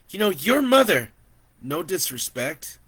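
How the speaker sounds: high, loud, pushing relative; insistent auntie. Acted. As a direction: insist he stay for a family meal. Auntie voiced.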